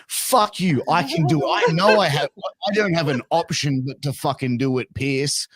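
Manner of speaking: wife snapping at husband; mock angry wife. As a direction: act the fed-up wife.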